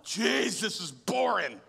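drawn-out groaning complaint, hammed up; mock exasperation. Preacher retelling his reaction to a dull book, mock exasperation. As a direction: draw out the gripe in mock misery.

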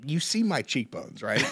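suppressing a laugh; trying to keep a straight face; holding back laughter. Real, not acted. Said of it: "trying so hard to keep a straight face".

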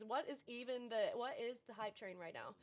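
breathless streamer talk; gasping between words; out of breath. Real, not acted. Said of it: "I'm out of breath".

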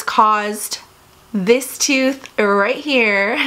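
lip held up by finger; talking around fingertip; finger at her teeth. Real, not acted. Seen 0: points at her tooth, finger at lip while speaking.

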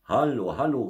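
high, loud hail; calling out loud. A narrator's reading. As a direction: shout to someone driving past. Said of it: "so laut er konnte". (lautes Rufen)

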